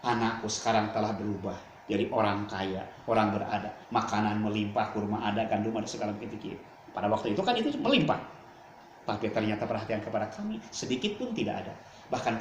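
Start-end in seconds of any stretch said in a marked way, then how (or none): 0.1-6.3 hurt complaint. Acted. Mother complains of her son.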